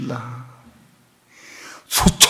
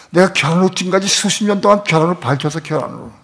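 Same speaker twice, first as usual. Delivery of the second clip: fervent preaching; 6 semitones higher than usual. Real, not acted. Preacher rises to a climax.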